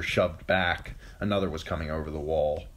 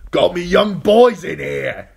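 loud, slow shout; 12 semitones higher, 13 dB louder than usual. A narrator's reading. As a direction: yell it down from the wall. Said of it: "Yoren shouted down".

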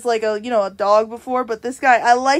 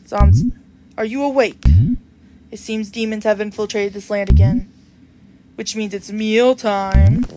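lightly voiced, slightly lower solemn reaper; a calm grim reaper explaining the situation; reaper NPC voice; 4 semitones lower than usual.

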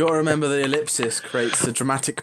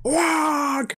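high orc war cry; Warhammer orc. Acted. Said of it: "speak with the orc accent from Warhammer".

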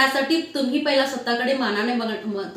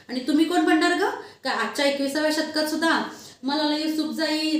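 lecturing man. Acted. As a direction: rebuke her hard, rising in anger. Man lectures her angrily. (रागाने उपदेश करणारा माणूस)

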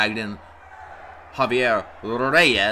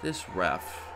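low, soft, deflated grumble; sigh, then let it drop quietly; disgusted resignation; 8 semitones lower, 14 dB quieter, much slower than usual. Real, not acted. Commentator giving up on the bad ref, deflated disgust.

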